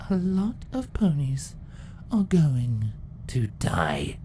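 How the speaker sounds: menacing villain decree; sinister empress. Acted. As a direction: promise death calmly. Empress threat.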